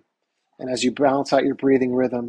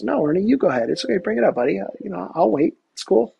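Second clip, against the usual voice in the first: easygoing, generous; 8 semitones higher, 3 dB louder than usual. Pretend. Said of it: "Now, what should I have done?".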